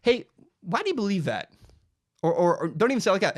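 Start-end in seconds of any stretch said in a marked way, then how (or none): 0.0-1.5 calm question. Shown as a demonstration. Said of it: "you can calmly ask somebody".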